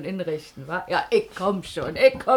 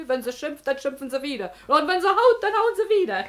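laughing advice; 4 semitones higher, 4 dB louder than usual. Acted.

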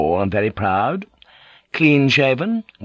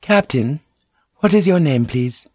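noblewoman's question; 4 semitones higher than usual. A narrator's reading. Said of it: "Mariko said".

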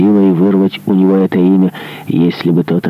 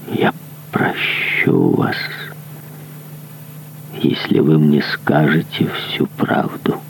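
barely controlled emotion; 2 semitones lower, 5 dB quieter than usual. Acted. Monk forgiving the dying man, hushed and held back. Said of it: "с трудом справился со своим волнением".

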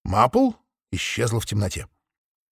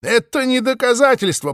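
high bleating sheep retort; 11 semitones higher, 4 dB louder than usual. A narrator's reading. Mothe bleats back at Maple, anxious and high. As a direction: bleat it, nervous and insistent. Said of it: "проблеяла Мот".

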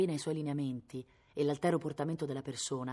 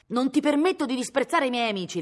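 higher and louder, cutting; a raised, higher indignant shout; indignant cry; 8 semitones higher, 8 dB louder than usual. Acted. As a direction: fire it back in offended pride. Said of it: "lei gridò".

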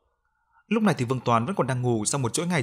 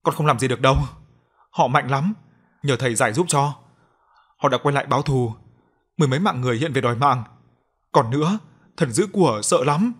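tearful ghost voice; 3 dB louder than usual. Acted. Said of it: "Nói đến đây bà lại khóc".

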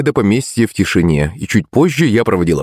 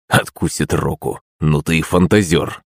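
smirking; 6 semitones lower than usual. A narrator's reading. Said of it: "ухмыльнулся лысый".

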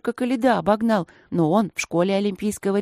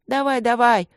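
louder jeering shout from the crowd; 5 semitones higher, 6 dB louder than usual. A narrator's reading. Classmates jeer at Yulka as she runs, shouting. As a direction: call it out, egging her on. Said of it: "закричали со всех сторон".

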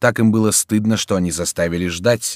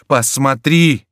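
much higher, louder shout; louder cry; 7 semitones higher, 7 dB louder, much slower than usual. A narrator's reading. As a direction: shout it out in horror. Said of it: "сказал Антраге".

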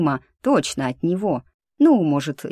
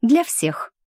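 higher-pitched "Для всех", falling at the end; considered afterthought; 6 semitones higher than usual. A narrator's reading. Heroine adds to her protest to the lynx, considered afterthought. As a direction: add "Для всех" as a separate, raised afterthought. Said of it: "подумав, добавила".

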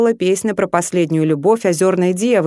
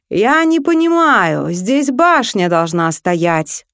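возмущённый дракон; slower than usual. Acted. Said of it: "раздался возмущённый голос дракона".

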